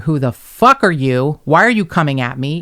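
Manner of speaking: loud retold tirade; furious. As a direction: confront a stranger, outraged and emphatic. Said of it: "I was furious".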